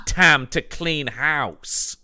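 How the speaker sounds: dramatic tagline read. Pretend. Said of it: "and the tagline is".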